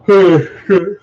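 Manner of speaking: loud, high yawning sigh; big yawn. Real, not acted. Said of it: "I'm just yawning to death".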